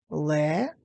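three separate beats with pauses; syllable by syllable. Shown as a demonstration. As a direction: break Ле-ле-ка apart, syllable after syllable. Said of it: "лелека поділіть на склади".

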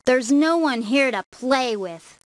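put-on a lonely boy calling out loud; shouting to the sky. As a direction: call out to the empty sky. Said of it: "Timmy shouted to the sky".

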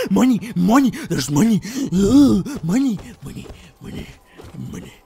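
loud, gasping cries of delight; excited shouting. Real, not acted. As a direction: grab at every coin. Discovering money.

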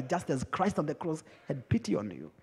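normal talking voice

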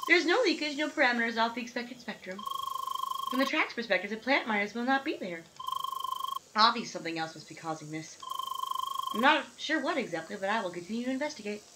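lightly voiced lady scientist; matter-of-fact scientist. Scientist lady greeting the seeker, matter-of-fact. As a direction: state it like a brisk researcher. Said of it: "matter of fact scientist lady".

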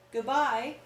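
sadly. Acted. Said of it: "said Alice Jane sadly".

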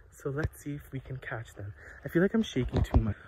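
ordinary talk, nothing marked

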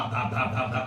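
soft, low repeated thuds; quiet rhythmic "dhap" of a paddle; imitated thumping. Teacher showing how the potter pats clay, softly imitated thumps.

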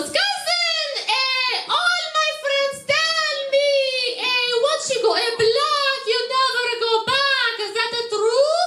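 high, sing-song Arab accent imitation; thick Arab accent. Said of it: "in her thick, strong Arab accent".

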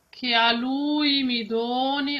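the U in "lui" held long. Shown as a demonstration. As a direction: stretch the U of "lui". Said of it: "also this U is quite long".

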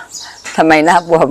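very slow and careful; spelled out slowly after speaking too fast; deliberately slow. Real, not acted. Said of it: "พูดเร็วไป".

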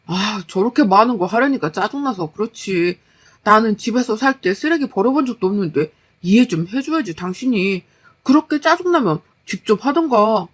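lightly voiced, irritated excuse; complain, then toss it back at her; petulant husband. Husband excusing undone recycling to his wife, petulant.

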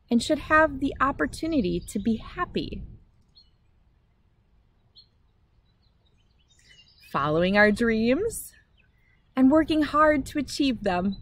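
gentle read-aloud storytelling voice; story reading. A narrator's reading. Reading a picture book to children, gentle storytelling.

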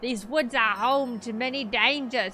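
put-on amateur British accent. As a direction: attempt a British accent as a villager giving warning. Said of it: "how to do a British accent".

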